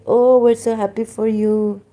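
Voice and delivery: high, loud mock gushing; gushing friend. Mimicking the Italian girl at the hostel, loud and gushing. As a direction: gush over them like a fake-happy friend. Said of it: "And she's like".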